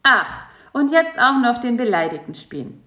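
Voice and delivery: mild snappy spider; snapping. A narrator's reading. Spider mocking the sulking fly, mildly snappy. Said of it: "schnauzte Karl-Heinz".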